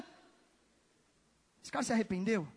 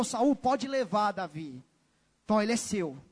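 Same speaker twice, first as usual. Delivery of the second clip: acted resigned surrender; 7 semitones lower than usual. Preacher acts handing David over.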